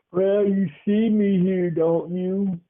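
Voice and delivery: put-on mild stern old man; lightly voiced old man. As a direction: stranger pointing out the obvious.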